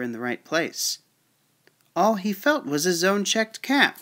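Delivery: measured storybook narration; story read-aloud. Acted. Reading the peddler's tale to children, storytelling voice.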